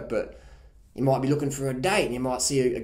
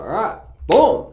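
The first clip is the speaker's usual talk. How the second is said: louder, higher, slow pumped-up call; 7 semitones higher, 10 dB louder, slower than usual. Retold or imitated. Worker answers boss's pep talk, pumped and loud. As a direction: fire yourself up. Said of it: "I was just like".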